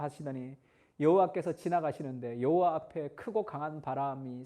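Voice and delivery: measured, rising cadence of a Bible reading; scripture reading. Acted. Preacher reads the Elijah passage to the congregation, solemn and measured. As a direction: read the passage like a preacher at the pulpit.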